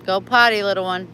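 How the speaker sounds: loud coaxing call to a little dog. Real, not acted. Owner urging her dog to go potty, coaxing. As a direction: urge the pup along, firm and kind.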